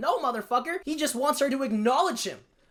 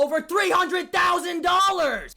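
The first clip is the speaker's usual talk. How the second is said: emphatic shout; 8 semitones higher, 5 dB louder, slower than usual. Real, not acted. Outraged emphasis on huge theft.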